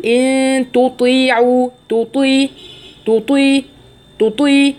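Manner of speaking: slow chanted تطيعوا, thin ت then heavy ط; نطق صحيح للتاء والطاء. Shown as a demonstration. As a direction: keep ت light and ط full in تطيعوا. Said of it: "فأقول". (ترتيل تطيعوا ببطء مع تمييز التاء من الطاء)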